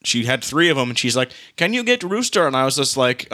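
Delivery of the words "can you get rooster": imitating neighbor. Neighbor asks for help catching rooster.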